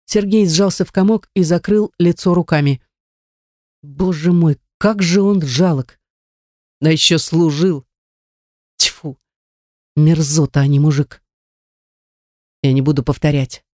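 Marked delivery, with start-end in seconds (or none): none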